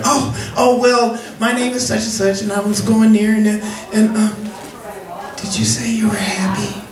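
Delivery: hammed-up high flustered caller. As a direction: babble in a high put-on caller voice. Caller voiced in phone story.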